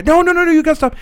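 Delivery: high, loud, frantic pleading; freaked-out mom. Retold or imitated. Nurse mom begging son to stop at crash, mock frantic. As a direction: imitate a mom in full panic. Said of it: "so she freaks out".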